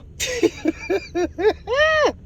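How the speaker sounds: high-pitched burst of real laughter; helpless laugh that runs on; cracking up. Real, not acted. Recapper cracks up at the man's reply, laughing. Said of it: "That was so funny".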